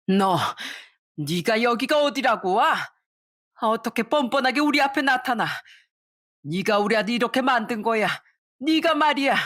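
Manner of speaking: high, accusing outburst; furious mother-in-law. Acted. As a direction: blame her to her face. Mother attacking daughter-in-law. (며느리 머리채를 잡고 분노하는 시어머니)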